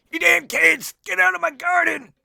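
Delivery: rasping, furious angry yell, very high and loud. The narrator voices a garden owner shouting at the players, shouting. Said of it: "you hear the shouting again".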